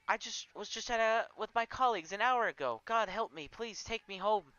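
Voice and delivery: begging to be sent home; panicking. Acted. Panic after arriving.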